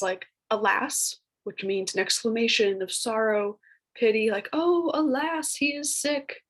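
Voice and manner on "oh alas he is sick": higher, slow, theatrical Shakespearean sigh; fancy old-English voice. Shown as a demonstration. Teacher demos alas for the class in a slow, higher, fancy stage voice. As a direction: ham up the lament like a stage actor. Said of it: "I make it sound fancy when I say it".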